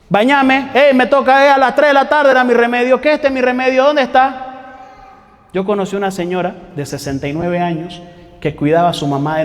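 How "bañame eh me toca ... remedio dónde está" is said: put-on demanding old person. Demanding very old people quoted.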